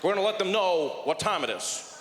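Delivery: a touch of a stern president at a podium; a hint of a tough president at a press conference; Barack Obama impression. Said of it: "Barack Obama, he was there, he's like".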